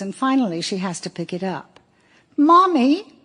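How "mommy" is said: put-on high, pleading little boy calling Mommy; a small child calling out for his mother; small child's voice. A narrator's reading. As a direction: reader voicing a young son on the phone, high and plaintive. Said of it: "Sammy's small voice says".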